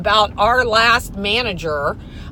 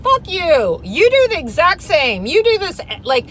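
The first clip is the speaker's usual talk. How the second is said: replaying how she went in on him; a hint of a heated retort; retold telling off; 7 semitones higher than usual. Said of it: "And I was like".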